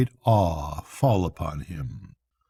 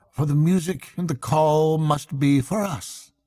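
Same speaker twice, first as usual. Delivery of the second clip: rapt Rat; 6 semitones higher than usual. Acted. Rat enthuses to Mole about the piping, rapt and higher. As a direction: marvel at music no one else hears.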